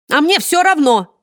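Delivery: высокий, громкий и медленный крик; сорваться на истерический крик. Acted. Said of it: "закричала худенькая хозяйка Сеттера". (хозяйка Сеттера кричит в толпе заложников)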